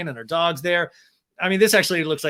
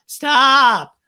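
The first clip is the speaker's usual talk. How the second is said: much louder, higher delighted stop; mock squeal; 9 semitones higher, 11 dB louder than usual. Podcaster mocking Raquel's giddy shriek.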